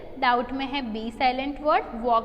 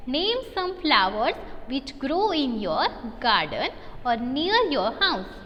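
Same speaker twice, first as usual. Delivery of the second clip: slow reading aloud; much slower than usual. Shown as a demonstration. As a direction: read the question out very slowly and clearly. Teacher reads question aloud.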